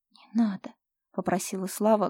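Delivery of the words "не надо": whispered, breathless plea; pleading whisper. Acted. Slava begs Fyodor to stop, whispering.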